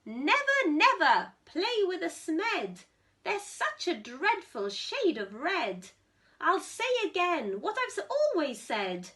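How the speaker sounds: a hint of a grandmother laying down the law; mock-stern warning to a grandchild. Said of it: "this is how she spoke her mind".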